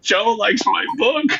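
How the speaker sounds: high, slow, loud fanboy wail; hammed-up giddy outburst; spazzing out. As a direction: squeal it slowly like an overjoyed fan. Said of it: "so I totally spazzed out".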